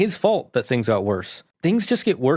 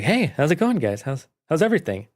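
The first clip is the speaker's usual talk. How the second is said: high, breezy and carefree; cheery oblivious greeting; 4 semitones higher than usual. Retold or imitated. Bob greeting his friends, unaware, cheery. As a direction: greet them as if nothing happened.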